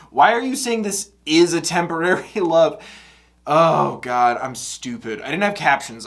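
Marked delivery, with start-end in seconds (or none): 0.1-2.8 retold anxious question. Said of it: "I'm like".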